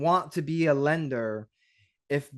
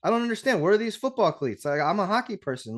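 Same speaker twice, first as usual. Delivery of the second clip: put-on higher, puzzled young son; mock confused kid; 6 semitones higher than usual. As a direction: play the baffled ten-year-old. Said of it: "He'd be like".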